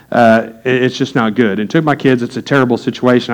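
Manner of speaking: subdued confession, sinking toward the end; retold seriousness. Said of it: "He got really serious".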